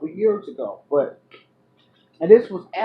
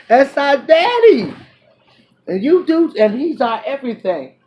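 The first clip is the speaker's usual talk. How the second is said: excited; 8 semitones higher, 5 dB louder than usual. Real, not acted. Excited praise of God.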